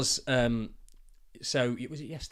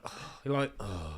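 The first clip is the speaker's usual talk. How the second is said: imitating son; 4 semitones lower, slower than usual. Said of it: "He was like, almost like that".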